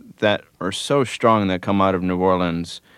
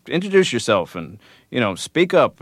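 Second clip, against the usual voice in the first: lightly imitated friendly urging, pitched up; 5 semitones higher than usual. Danny Barker urging a newcomer before the band, very friendly. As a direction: coax the shy newcomer forward. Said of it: "he was just very friendly".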